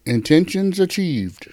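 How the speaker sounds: whispered tagline; breathy unvoiced whisper. Whispered intro tag.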